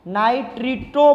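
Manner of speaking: नाइट्रिटो in slow, separate syllables; pronunciation demo. Shown as a demonstration. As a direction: repeat नाइट्रिटो carefully for learners. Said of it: "इसको बोलेंगे हम". (नाइट्रिटो का धीरे-धीरे साफ़ उच्चारण)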